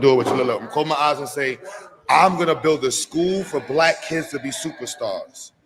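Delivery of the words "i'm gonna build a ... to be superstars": demo affirmation. Shown as a demonstration. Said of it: "Let me show you".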